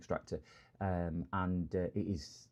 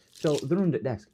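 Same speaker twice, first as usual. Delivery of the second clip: whisper; 5 semitones higher, 5 dB louder than usual. Real, not acted. Unvoiced whisper aside.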